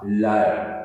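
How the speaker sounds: लायर said as two syllables, ला-यर, falling; syllable demo. Shown as a demonstration. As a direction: break लायर into ला and यर. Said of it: "इसलिए हम L I A R". (शब्दांश में लायर)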